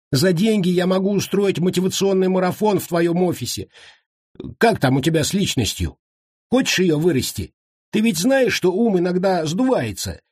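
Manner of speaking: high chattering sales pitch; high-voiced captive salesman nonstop; babbling coach. A narrator's reading.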